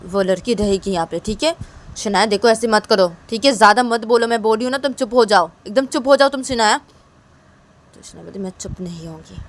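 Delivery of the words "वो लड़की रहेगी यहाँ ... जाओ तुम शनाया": raised, louder, scolding voice; mock angry refusal. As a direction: scold her sister sharply, half acted. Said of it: "तभी तिशा बोलती कि क्या है".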